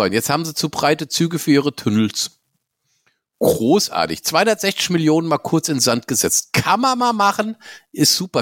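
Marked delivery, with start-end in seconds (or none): 3.4-8.4 dry sarcastic praise; mock it with fake cheer. Real, not acted. Ironic praise of failure.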